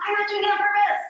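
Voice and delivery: high, loud protesting; insist, half laughing, that it isn't on purpose; defensive protest. Retold or imitated. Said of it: "I'm like".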